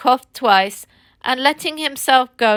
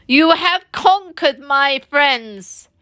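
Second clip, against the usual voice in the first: broken voice; 5 semitones higher, slower than usual. Acted. Toad yields to his friends in a broken accent. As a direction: give in with wounded grandeur. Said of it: "he said in a broken accent".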